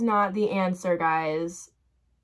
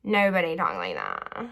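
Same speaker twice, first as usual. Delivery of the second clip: lower, put-on mimicking voice; poking fun with a lowered voice; mocking how people talk; 4 semitones lower than usual. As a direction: say it in an affected imitation. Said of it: "make fun of how people talk".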